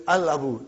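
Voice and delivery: "Al Abu" with the l clearly sounded; lam pronounced. Shown as a demonstration. Teacher showing students a moon letter, lam pronounced in "Al Abu". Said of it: "I did pronounce Lam".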